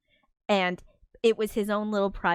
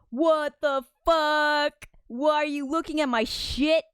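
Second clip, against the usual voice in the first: mock outrage; 7 semitones higher, 3 dB louder than usual. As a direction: play an exaggerated furious character. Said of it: "and he's like".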